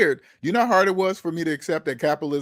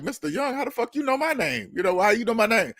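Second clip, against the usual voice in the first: startled; 5 semitones higher than usual. Retold or imitated. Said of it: "I was like".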